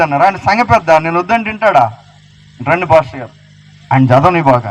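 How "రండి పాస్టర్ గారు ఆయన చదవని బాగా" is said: sweet-talking church member. Retold or imitated. Preacher mimics a member inviting the pastor, lowered coaxing voice. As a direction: coax the pastor sweetly, voice sunk low.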